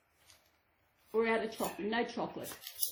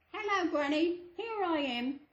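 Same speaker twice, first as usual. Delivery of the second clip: put-on wolf putting on a higher little girl voice; wolf faking girl's voice; 6 semitones higher than usual. Wolf at Granny's door faking a higher little girl voice. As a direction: trick Granny with a sweet girl voice. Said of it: "he calls in a little girl's voice".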